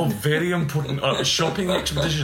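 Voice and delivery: mock pompous. Echoing father's grand phrase to friend, mock pompous. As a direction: puff up "shopping expedition" like a grand affair. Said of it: "making the messages sound very important".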